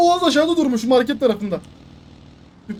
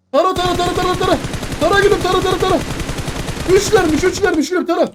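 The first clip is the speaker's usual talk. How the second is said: higher, louder stiff bot voice; robot voice; 6 semitones higher, 3 dB louder, faster than usual. Pretend. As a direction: chant it like a game bot. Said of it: "Bot taklidi yapacağım ben ya".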